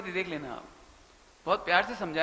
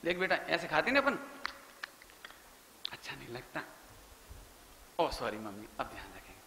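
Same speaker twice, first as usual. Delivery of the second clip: sweet quick apology; 4 semitones lower, 6 dB quieter than usual. Retold or imitated. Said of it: "यदि बहू फौरन कह दे".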